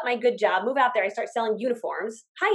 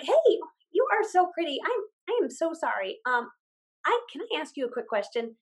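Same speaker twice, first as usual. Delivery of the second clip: higher, sweet apologetic approach; friendly pitch; 4 semitones higher than usual. Shown as a demonstration. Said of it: "But if it's like".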